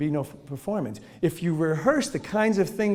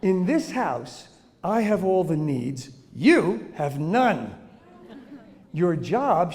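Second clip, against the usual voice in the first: lightly voiced demanding newborn, slow and deliberate; a hint of a smug infant boss; bossy baby. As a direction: lay down the law like a tiny tyrant. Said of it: "And they'd say".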